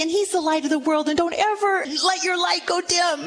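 high fervent sermon blessing; preaching to the baby. Acted. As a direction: proclaim it over the child, quick and high.

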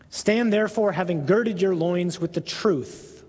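solemn, lifted scripture reading. Acted. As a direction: proclaim the passage to the congregation. Reads scripture aloud.

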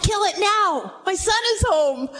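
can't contain his joy at his son's return; father overjoyed that his son is home, mildly voiced; joyful father. Father rejoicing over returned son.

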